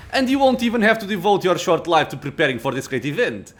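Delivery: proud, imperious lich; arrogant lich. Acted. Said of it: "Arrogance rings in the lich's voice".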